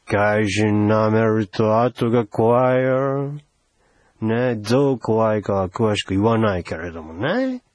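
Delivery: low, understated menace; veiled threat. Acted. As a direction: warn them in a low voice.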